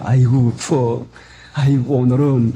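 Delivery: slow, drawn-out groan at the cold; mock a man dreading the icy bath; shivering from cold. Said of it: "하고 그 안 할 핑계만 대요". (추위에 떨며 느릿하게 엄살 부리는 목소리)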